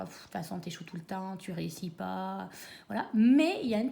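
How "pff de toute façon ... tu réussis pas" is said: defeated inner voice. Retold or imitated. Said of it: "des pensées genre".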